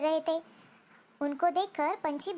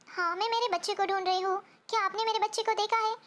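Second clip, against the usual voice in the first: anxious mother bird; 5 semitones higher, 4 dB quieter, faster than usual. Acted. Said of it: "वो बहुत परेशान रहती है".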